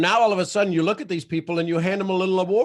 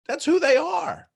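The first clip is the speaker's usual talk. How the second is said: emphatic; 11 semitones higher, 4 dB louder than usual. Real, not acted. Emphatic point in talk.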